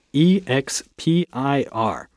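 E X P I R said slowly, one letter at a time; spelling it out. Shown as a demonstration. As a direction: spell E X P I R letter by letter with small pauses. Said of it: "帮我们再拼一下这个过期哦，expired".

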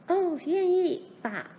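high-pitched, drawn-out eager yes; enthusiastic. A narrator's reading. Youngest daughter agrees to father's plan, enthusiastically. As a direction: agree wholeheartedly, like a delighted child. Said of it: "琳琳热烈地说".

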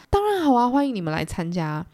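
bright high eager welcome; Gatsby lightly acted as overjoyed; happy. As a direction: greet them with real delight. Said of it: "盖茨比就很开心啊".

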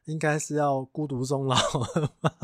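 laughing mock insult. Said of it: "你就说".

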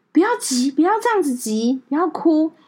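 calm teacher. Retold or imitated. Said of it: "非常的有智慧跟非常冷静".

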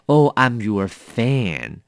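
a mild mock fan meeting their idol; gushing fan. Teacher acting a fan greeting a favourite star, lightly gushing. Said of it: "比如说你看到你很喜欢的人，你只能说".

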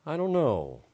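slow, lightly voiced hungry bear.

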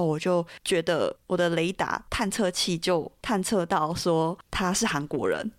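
normal talking voice

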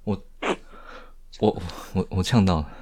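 sputtering after choking; choked, stammering words; choking on a drink. Real, not acted.

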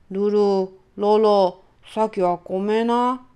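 apologetic dad. Acted. A hint of dad apologizing to his daughters at dinner. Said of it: "パパはルルロロちゃんに謝りました".

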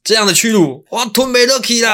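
high, loud anguished cry of humiliation; dramatic shouted title. Acted. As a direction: belt out the title again as a wronged hero. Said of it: "再来一次".

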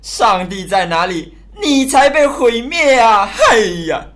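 scornful heckling with mild force; jeering abuse. Acted. Crowd member jeers at Noah after a century of warnings, scornful heckling. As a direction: scoff at the old warning. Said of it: "咒诅叫骂".

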